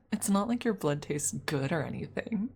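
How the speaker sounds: lightly acted tsundere denial; a touch of tsundere huffiness. Shown as a demonstration. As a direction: play a mildly tsundere vampire. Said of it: "if I tsum tsum a little bit".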